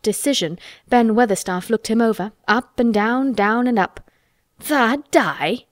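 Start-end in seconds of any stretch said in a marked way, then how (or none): 4.6-5.6 understated triumphant scoff in dialect; a lightly voiced old Yorkshireman, dryly delighted; dry exultation. A narrator's reading. Old gardener scoffing at the boy's dying, with dry exultation. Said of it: "he said with dry exultation".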